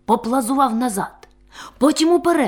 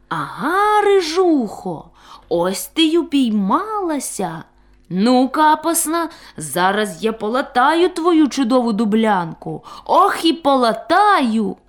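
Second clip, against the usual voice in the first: gloating threat; 4 semitones higher than usual. Acted. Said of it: "та й думає".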